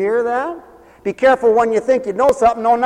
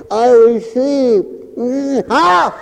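slow words round a sucked thumb; thumb in mouth; much slower than usual. Acted. Preacher showing believers how to receive like a child, thumb-in-mouth speech. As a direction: act a small child talking with thumb in mouth. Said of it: "put your thumb in your mouth and say".

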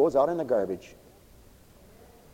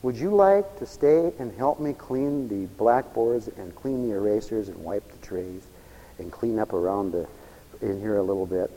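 gentle invitation; 4 semitones lower than usual. Retold or imitated. Teacher politely inviting the boy to stay, gently. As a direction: ask kindly, as a welcome. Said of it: "It was an invitation".

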